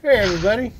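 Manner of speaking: a hint of a Western cowboy; cowboy accent. Western cowboy accent greeting the new arrivals. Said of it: "doing this in the accent".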